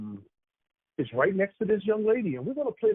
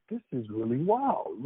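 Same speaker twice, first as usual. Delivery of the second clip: "This is really wild" drawn out slowly; slow, awed aside; 4 semitones lower, slower than usual. Retold or imitated. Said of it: "'cause I'm like".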